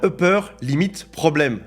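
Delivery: showing off an English accent; French speaker trying out an English accent. Shown as a demonstration. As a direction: put on your best English accent. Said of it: "Admirez mon accent anglais".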